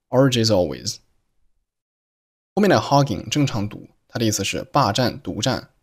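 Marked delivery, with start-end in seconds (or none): 0.1-1.0 R J's always joined with no gap; R J's always as "R J-zalways"; linked words. Shown as a demonstration. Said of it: "R J's和always辅元连读".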